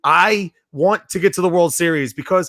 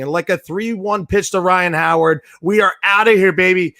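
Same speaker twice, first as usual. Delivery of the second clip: punchy radio sign-off, louder at the end; hyped sign-off; 3 dB louder than usual. Real, not acted. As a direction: sell the home-run call.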